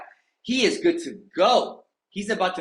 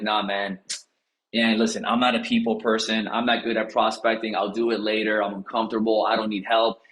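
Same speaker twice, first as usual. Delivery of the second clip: low, dismissive mock voice; mock reluctant agent; 5 semitones lower than usual. Tom turning down help, low dismissive mock voice. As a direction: brush it off like a lazy agent. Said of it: "Tom was like".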